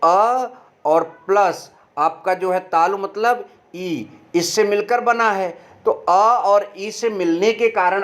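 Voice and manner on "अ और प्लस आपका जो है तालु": slow and deliberate, each word spaced; slow explaining. Shown as a demonstration. Teacher slowly breaking down ए into parts. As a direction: spell it out slowly for students. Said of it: "तो समझिए".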